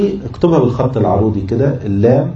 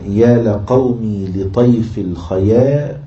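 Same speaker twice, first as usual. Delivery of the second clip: verse recitation; much slower than usual. Shown as a demonstration.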